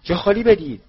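high, loud urgent yell; warning shout. A narrator's reading. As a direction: shout a sudden warning to friends. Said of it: "بدون یک لحظه مکث فریاد زد". (فریاد هشدار)

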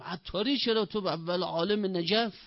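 high-pitched, acted disbelief; incredulous protest. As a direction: protest as if it makes no sense. Acted disbelief at scholar's humble trade.

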